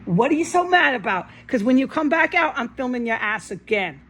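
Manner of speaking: angry challenge to the neighbor. Real, not acted. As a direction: throw the question at him angrily. Confronting neighbor.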